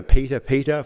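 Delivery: PETER said twice, each one pressed; emphatic repetition. Shown as a demonstration. Preacher shows how the Bible repeats a name, emphatic PETER, PETER. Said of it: "for emphasis".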